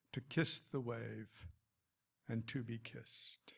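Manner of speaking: measured poetry recital with pauses between lines; poem reading. Acted. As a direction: read it as verse, each line set apart and falling at the close. Reads own poem aloud.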